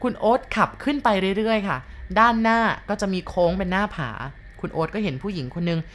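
ordinary delivery

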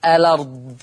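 الأرض as elard, the vowel moved onto the ل; الأرض read with naql; transferred hamza. Shown as a demonstration. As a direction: drop the hamza, say الأرض as lard. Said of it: "تقرأ".

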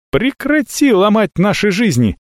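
high, pleading shout. A narrator's reading. Avella shouting at the dragon, high and desperate. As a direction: yell it at the dragon. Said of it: "закричала Авелла".

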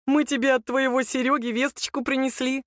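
a lightly voiced mocking thug. A narrator's reading. The lanky thug taunts Nika with news, smug.

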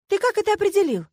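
high surprised question; удивлённо. A narrator's reading. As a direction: ask in real disbelief. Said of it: "удивилась я". (удивлённо, высоко)

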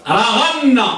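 رغن said ra-ghan-na, with a gh sound; teacher's model of رغن with ghayn; dotted ghayn. Shown as a demonstration. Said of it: "بالمعجمة".

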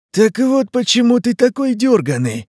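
high, loud creature snarl; Leshy's monster voice. Acted. Forest spirit realizing Ivan's guilt, high loud snarl. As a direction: spit it out like a forest beast. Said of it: "произнёс Леший".

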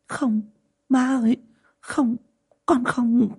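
high, desperate denial; daughter-in-law pleading with her furious mother-in-law; frightened pleading. Acted. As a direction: beg her not to blame you. Daughter-in-law pleading, denying blame.

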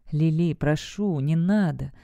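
slow, pitiful pleading; a broken father pleading, understated; pitiful plea. Acted. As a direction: beg weakly and slowly. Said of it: "выдавил он откровенно жалким тоном".

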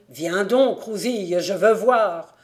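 loud, insistent calling; a frantic old man yelling for Rousille; shouting. A narrator's reading. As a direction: demand it at full voice from afar. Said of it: "criait-il".

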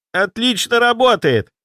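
thrilled the spell works; delighted. Acted. Apprentice rejoicing at his shining dome, high excited cry. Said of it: "обрадовался Кирилл".

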